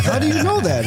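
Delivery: high-pitched surprised question; imitated astonishment. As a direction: quote someone amazed, pitch leaping up. Retelling strangers' astonished reply.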